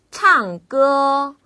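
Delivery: 唱 falls from high, 歌 held high and level; fourth-first tones. Shown as a demonstration. Teacher models tones for learners, 唱 falling, 歌 high level. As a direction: plunge on 唱, then sustain 歌 high. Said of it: "위에서 아래로 뚝 떨어지는 느낌으로".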